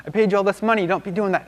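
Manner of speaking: high-pitched, frantic mock outrage; exasperated high-voiced acted protest; king freaking out. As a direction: rant in a hammed-up royal tantrum, easing off gradually. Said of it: "And the king freaks out".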